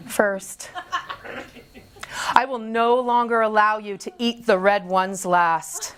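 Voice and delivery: earnest, measured formal letter reading; deliberate mock-serious concern; mock intervention letter. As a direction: read a solemn ultimatum to yourself, tongue in cheek. Reads out her intervention letter.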